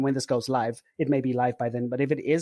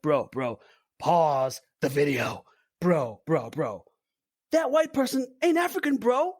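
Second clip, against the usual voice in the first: American guy voice; 3 semitones higher, slower than usual. Retold or imitated. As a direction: do an outraged bro. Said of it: "He was like".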